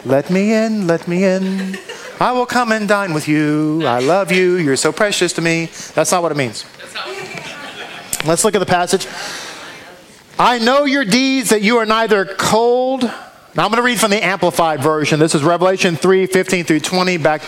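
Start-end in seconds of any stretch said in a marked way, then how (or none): 0.0-5.7 a touch of syrupy tenderness, lightly voiced; mock sweet Jesus. 10.4-13.0 slow, weighty scripture read. Acted. Preacher reading Revelation to the congregation, slow and solemn.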